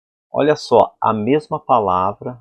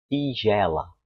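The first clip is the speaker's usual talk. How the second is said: softer Northeastern "tigela", hard t; Northeastern Brazilian accent; 6 dB quieter, slower than usual. Shown as a demonstration. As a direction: quieter Brazilian Northeast "tee-jela" for "tigela". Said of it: "quem mora no Nordeste".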